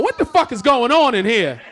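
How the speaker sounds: loud barging-in dad; mock-furious yell at the door; angry parent yelling. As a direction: burst in yelling at the kid. Parent bursting into son's room.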